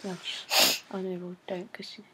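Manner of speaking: urgent whisper. Real, not acted. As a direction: hiss it under your breath. Whispering advice during live call.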